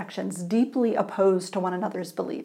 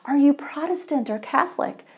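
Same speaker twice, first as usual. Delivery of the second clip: eager; 6 semitones higher than usual. Acted. Eager man questioning stranger.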